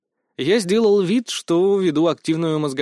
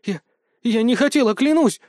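higher, rising to a scared squeal; scared girl swearing she didn't mean it; frightened; 8 semitones higher than usual. A narrator's reading. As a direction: plead in panic. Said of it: "испуганно пискнула".

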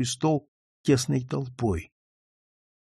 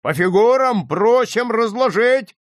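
high, loud crowd demand; insistent raised cry; voices calling out; 7 semitones higher, 5 dB louder than usual. A narrator's reading. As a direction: call it out from the crowd. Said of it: "снова раздались голоса".

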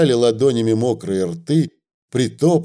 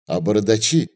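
ordinary delivery, nothing marked

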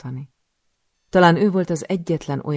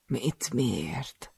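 whimpering; 2 semitones lower, 6 dB quieter than usual. Acted. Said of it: "nyöszörgi".

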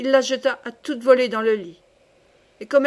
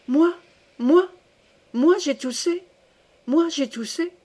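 high-pitched indignant outburst; indignant yell; 5 semitones higher than usual. A narrator's reading. Wife accused of coughing by her husband, indignant. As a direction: cry out in offended disbelief. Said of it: "elle s'indigna, hurlant".

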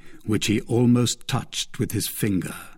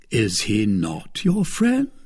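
negligent. Acted. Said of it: "replied the Baron negligently".

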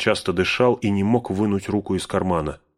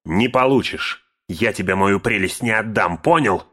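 higher, louder, rising to a cry at the end; angry shout; 3 semitones higher, 6 dB louder than usual. A narrator's reading. Bilbo shouting at Gandalf over the ring, angry. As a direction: yell it out, clutching the ring. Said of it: "крикнул Бильбо".

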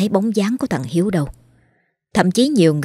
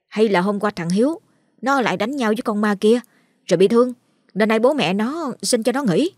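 put-on child gossiping; 5 semitones higher than usual. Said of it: "Bọn chúng kháo nhau".

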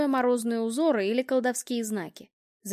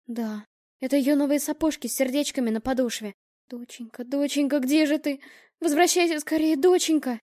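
rising to a louder, higher plea; desperate calling; 4 semitones higher, 3 dB louder than usual. Acted. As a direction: call out to the lost child in anguish. Mother calls her lost daughter. (мать в отчаянии зовёт пропавшую дочь)

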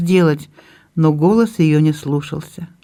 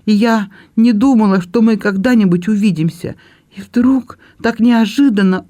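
higher voice close to tears, faltering at the end; tearful confession; 5 semitones higher than usual. Acted. Belinda tells her brother, tearful and breaking off. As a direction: let her voice crack on the final stumbling words. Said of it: "Белинда не могла продолжать".

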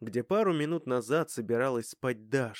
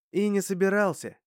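dismissive; 8 semitones higher, 7 dB louder than usual. Acted. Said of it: "отмахнулся Вит".

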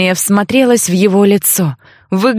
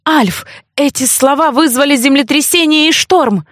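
higher, alarmed warning; urgent warning; 6 semitones higher than usual. Acted. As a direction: warn him, shocked at his blindness. Heroine warns Alf. (героиня предупреждает Альфа, встревоженно)

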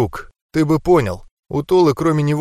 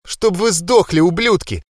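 sobbing curse; 6 semitones higher than usual. A narrator's reading. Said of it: "Толу сотрясали рыдания".

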